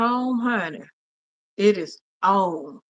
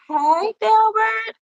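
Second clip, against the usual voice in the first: much higher, slow, stretched hello; excited greeting; 11 semitones higher, 4 dB louder, slower than usual. Real, not acted. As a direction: draw the name out with joy. Greeting another viewer.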